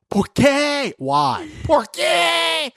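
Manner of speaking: high mock shout of why; imitated screaming. Jilted man screaming at his girlfriend, hammed-up shout. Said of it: "he's screaming".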